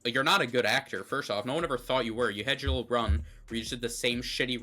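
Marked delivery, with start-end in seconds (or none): 0.0-2.3 loud, raised-pitch indignant outburst; exasperated rant. Real, not acted. Podcaster berating an absent actor for his performance, exasperated rant. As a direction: lay into him, loud and higher.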